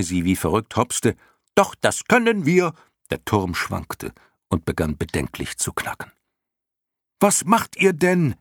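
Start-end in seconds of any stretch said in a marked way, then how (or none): 1.5-2.7 high, squeaky cheeky call; clown moth calling down. A narrator's reading. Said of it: "Die erste rief wieder zu Bastian hinunter". 7.2-8.3 high, drawn-out cry; angry, shocked shout. A narrator's reading. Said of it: "schrie Bastian".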